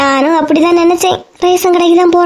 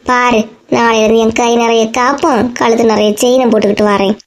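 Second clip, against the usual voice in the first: lower, sly gossip in a woman's voice; a hint of a jealous neighbour whispering aside; lightly voiced gossiping neighbour; 6 semitones lower than usual.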